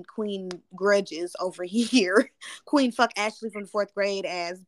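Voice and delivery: laughing through a self-mocking joke. Real, not acted. Confessing her grudges to a friend, laughing. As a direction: chuckle as you crown yourself queen of grudges. Joking about holding grudges.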